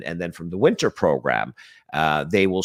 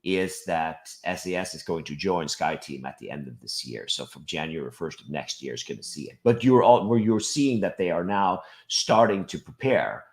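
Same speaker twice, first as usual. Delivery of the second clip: rough voice from a cold; hoarse voice. Real, not acted. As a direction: talk through a head cold. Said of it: "I apologize in advance for my voice".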